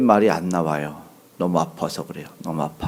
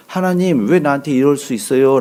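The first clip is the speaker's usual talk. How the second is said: crying out to God; 5 semitones higher, 3 dB louder than usual. Retold or imitated. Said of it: "왜 외치면서".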